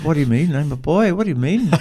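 imitating a baffled boy; puzzled protest. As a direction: protest like a confused child, retold. Retold childhood protest at the question.

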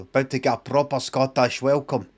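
quoting in an imitated Scottish accent. Repeating the film line, imitated Scottish accent. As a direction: copy the actor's Scottish accent. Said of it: "he speaks like that".

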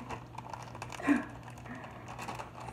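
breathless laugh. Real, not acted. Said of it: "I'm not kidding".

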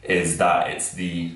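losing the words, foggy-headed; hungover. Real, not acted. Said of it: "I'm really, really hungover".

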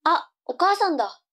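put-on high cute anime girl. Girl noticing her mother.

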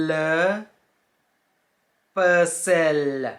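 le puzzle as "puh-zel"; le puzzle, stretched out slowly; French pronunciation. Shown as a demonstration. Teacher modelling the French word, careful French. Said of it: "เราอ่านว่า".

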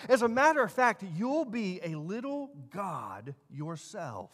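lightly acted tempter, building to a high pitch; Satan. Tempter promising Eve knowledge from the fruit, lightly acted persuasion. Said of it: "that's how he came to Eve".

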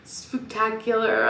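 like telling a ghost story; spooky Halloween voice. Acted. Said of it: "I don't know why I'm talking like that".

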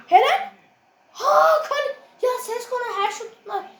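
frustrated cry. Real, not acted. Keeper saves every shot again.

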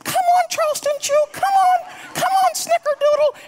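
very high, loud dog-calling coo; high-pitched pet voice. Retold or imitated. Pastor copying his wife calling the dog in, very high and loud. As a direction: mimic the wife's squeaky call. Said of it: "I start doing the dance".

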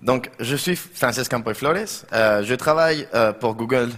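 halting French with a Catalan accent; hesitant French with a Spanish accent; broken french. Real, not acted. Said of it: "je parle un peu français".

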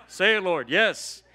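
loud, fervent reply to the Lord; excited loud acceptance; eager loud yes. Retold or imitated. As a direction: shout your yes up to heaven. Eager answer to God's call.

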